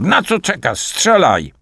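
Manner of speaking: high, pushed, urgent yell; urgent shout. A narrator's reading. Artur pinned to the table urging Liza to fire, high urgent yell. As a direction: jump up high and order her to fire now. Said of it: "krzyknął Artur".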